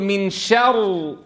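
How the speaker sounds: very slow "من شر", first r thick, split from the second; faulty recitation of "من شر", drawn out with a full, dark r; heavy first ra. Shown as a demonstration. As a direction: stretch "شر" in "من شر" with a heavy, held r. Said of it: "الراء الأولى ساكنة سبقت بفتح، فالأصل التفخيم".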